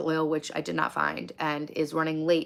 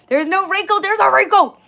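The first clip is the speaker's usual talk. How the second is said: high-pitched, louder mock squeak; squeaky mock voice; 14 semitones higher, 10 dB louder than usual. To chat about Ronda Rousey, a high mocking squeak. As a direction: chirp it up high like a cartoon.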